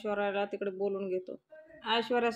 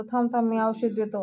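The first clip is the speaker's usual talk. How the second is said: louder, hurried stop-stop to the coughing mother; urgent louder call; 5 dB louder than usual. Acted. Son hurrying to help his coughing mother, urgent louder call. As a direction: rush in with help, voice raised.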